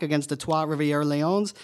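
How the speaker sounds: slow, careful Quebec French pronunciation of the team name; French accent. Real, not acted. Host on air saying the Quebec team name with a French accent. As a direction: give the place name its French Canadian sound. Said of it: "added the French accent the remainder".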